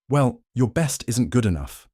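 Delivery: loud, cutting snap; snapping. A narrator's reading. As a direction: snap it back with contempt. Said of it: "Linda snapped".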